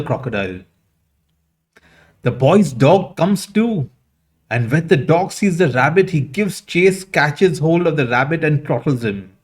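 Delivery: lively, lilting storyteller's read; animated fable storytelling. Acted. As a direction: tell the fable with animated character dialogue. Tells a fable aloud with character quotes.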